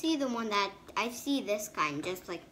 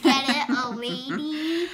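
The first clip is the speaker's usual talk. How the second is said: giggly, louder punchline check; laughing; 5 semitones higher, 9 dB louder, slower than usual. Real, not acted. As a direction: laugh through the joke. Laughing at the riddle.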